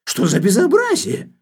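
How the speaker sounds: high, loud, furious cry; enraged shout. Acted. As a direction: flare up and yell at him. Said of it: "вскричал Фарфуркис".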